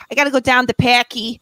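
aunt's Boston accent, lightly imitated; a touch of old Boston. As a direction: quote the aunt in a Boston accent. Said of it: "his aunt talks, and she's always just like".

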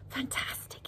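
soft, breath-filled admiring sigh. A narrator's reading. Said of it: "he sighed".

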